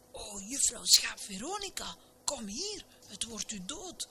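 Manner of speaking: high, anxious plea to come back; mildly panicked storybook cry; alarmed calling. A narrator's reading. Alarmed ladies calling to runaway sheep.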